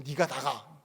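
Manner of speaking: lightly voiced Gyeongsang question; 경상도 사투리로; Gyeongsang dialect. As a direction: say it in a Gyeongsang accent. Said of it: "이게 경상도 사투리로".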